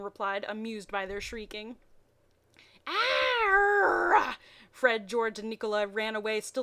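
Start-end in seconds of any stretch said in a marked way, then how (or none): 2.9-4.4 high loud put-on growl; hammed-up monster roar; mock roar. Vampire roaring at the fleeing children, hammed-up.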